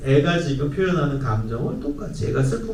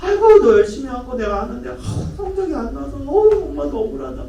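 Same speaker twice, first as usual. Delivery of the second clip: higher, sighing commiseration; shared frustration; 9 semitones higher than usual. Shown as a demonstration. Mom sharing her child's frustration over grades, sighing. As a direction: feel the unfairness with the child. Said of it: "똑같이 엄마도 억울함을 표현해 주는 거야".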